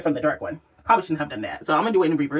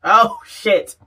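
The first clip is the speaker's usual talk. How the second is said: excited exclaim; 4 semitones higher, 6 dB louder than usual. Real, not acted. Reacts to the highlighter glow.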